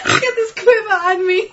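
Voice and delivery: high mock Southern twang; teasing accent imitation. Co-host echoing the reader's quiver line, mock Southern accent.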